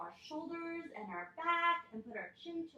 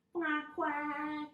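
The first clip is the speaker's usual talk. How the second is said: higher, drawn-out quacking; duck quack; 5 semitones higher than usual. Shown as a demonstration. Teacher leading kids in duck pose, higher playful quacking. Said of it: "Let's quack".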